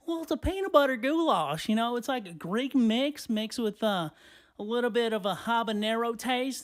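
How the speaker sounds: high-pitched lady pitching a free sample; old sample lady. Acted.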